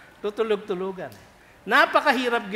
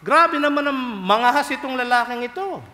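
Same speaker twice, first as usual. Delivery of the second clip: shocked onlookers; 6 semitones higher, 5 dB louder than usual. Retold or imitated. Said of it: "akala nila".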